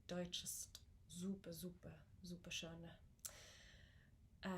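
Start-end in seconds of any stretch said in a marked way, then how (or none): 0.1-2.9 soft German accent. Shown as a demonstration. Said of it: "It's very soft".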